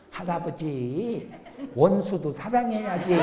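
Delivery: slow, soft imitation of a small child; three-year-old grandchild. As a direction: draw it out like a toddler gently admonishing grandpa. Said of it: "세 살 먹은 서산 제일교회 다니는".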